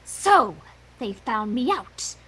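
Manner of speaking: gloating. Acted. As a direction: savour the evil plan. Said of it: "she gloated".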